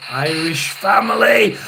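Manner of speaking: calls it out loud, slow and delighted; thrilled outburst at the answer; excited shout. Real, not acted. Excited reaction to spirit box.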